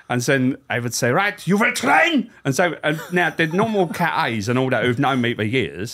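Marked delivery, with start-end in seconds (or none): 1.1-2.3 high, slow German drill sergeant voice; a hammed-up German officer, drawn out; mock German accent. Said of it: "warm-up in the German accent".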